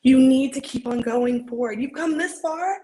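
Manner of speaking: earnest pep talk, acted with feeling; heartfelt dramatic encouragement; audition monologue. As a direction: insist on their worth, building from gentle to emphatic.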